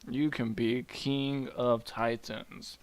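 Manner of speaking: slow, drawn-out offer; lightly grand promise. Acted. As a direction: dangle the prize slowly and grandly. Gaia offers Kronos a reward.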